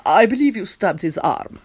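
mildly kind prince. A narrator's reading. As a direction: answer gently, with understated kindness. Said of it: "the prince says in a kind voice".

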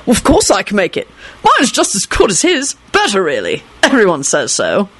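lightly cheerful, confident announcement; cheery boast. Acted. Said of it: "heard Arthur announce cheerily".

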